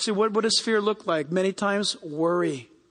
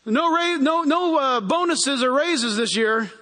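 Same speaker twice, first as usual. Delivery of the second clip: boss's announcement; 4 semitones higher, slower than usual. Retold or imitated. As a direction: break the bad news to staff. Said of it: "the boss announces".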